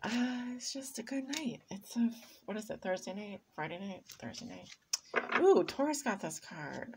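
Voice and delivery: loose, rambling tipsy talk. Real, not acted. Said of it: "Sorry, I'm a little tipsy".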